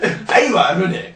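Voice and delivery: put-on slow gravelly old master voice; raspy voice. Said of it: "ガラガラ言う師匠嫌や".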